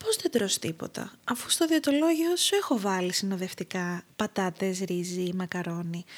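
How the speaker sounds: softened, carefully polite questioning. Retold or imitated. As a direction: ask it with mock courtesy, softly. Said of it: "κάνω εγώ την πολύ ευγενική ερώτηση".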